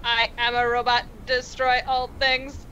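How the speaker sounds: slow, stiff robot voice; toy robot voice. Pretend. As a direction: speak like a toy robot, word by word. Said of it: "'cause you guys all sound like robots".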